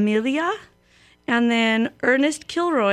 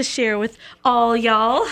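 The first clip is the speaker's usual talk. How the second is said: slow, mock Southern drawl on y'all; half-hearted Southern accent; 4 dB louder, slower than usual. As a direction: stretch it out in a playful Southern drawl. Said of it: "that was my Southern drawl".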